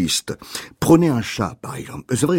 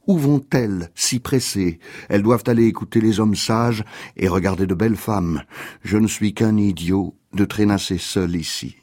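measured, understated poetry reading; poem reading; 2 semitones lower than usual. Acted. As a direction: read the poem aloud, pitch easing down line by line. Reads a poem aloud.

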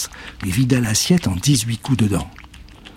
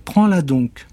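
plus aigu; sorcière; 5 semitones higher, slower than usual. Acted. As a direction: offre la flûte. (la sorcière tend la flûte, aiguë)

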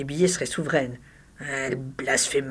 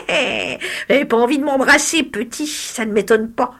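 put-on old hag voice; 2 semitones higher than usual. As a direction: taunt him like a cackling witch. Hag keeps taunting.

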